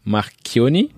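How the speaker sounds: surname in an attempted Italian accent; terrible Italian accent. Real, not acted. Wine host naming an Italian estate, self-mocked Italian accent. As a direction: say the name with amateur Italian pronunciation. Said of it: "mon accent italien qui est terrible".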